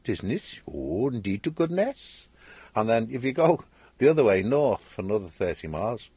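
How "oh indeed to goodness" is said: Welsh accent. Shown as a demonstration. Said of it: "They all sing when they talk like that".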